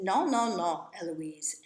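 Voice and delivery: yelling. A narrator's reading. Nanny coming in to stop Eloise, yelling. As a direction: burst in with a loud string of refusals. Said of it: "Nanny comes in yelling".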